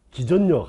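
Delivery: 기전력 as "기전녁"; mock the wrong "gi-jeon-nyeok" for 기전력; imitated mispronunciation. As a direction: say 기전력 with double N, as a mistake. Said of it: "듣기가 거부가단 말이야".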